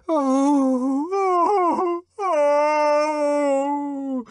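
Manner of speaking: high, breathless oh-oh-oh; overwhelmed ecstatic cries; inarticulate ecstasy. Acted. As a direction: moan it out in rapture. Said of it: "inarticulately testified".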